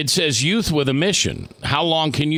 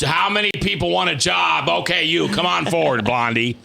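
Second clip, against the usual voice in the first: mock recruiter; 5 semitones higher than usual. Mimics a casual hiring call.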